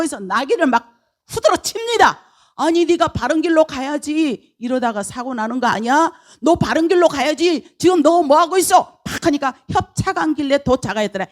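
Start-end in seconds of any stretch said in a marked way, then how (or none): 2.6-9.0 higher-pitched scolding; acted scolding. Balaam tells the straying donkey to stay on the road, scolding.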